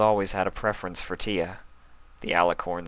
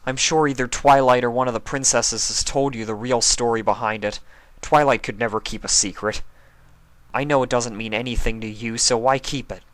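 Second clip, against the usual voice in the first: angry; 4 semitones higher, 4 dB louder than usual. Acted. Spike angry at Rarity.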